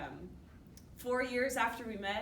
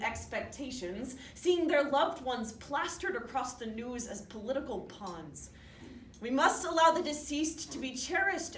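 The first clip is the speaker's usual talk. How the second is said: measured, emphatic public address; crafted competition-speech delivery; formal speech introduction. Acted. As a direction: present the argument to an audience.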